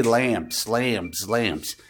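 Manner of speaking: mock hypnotist.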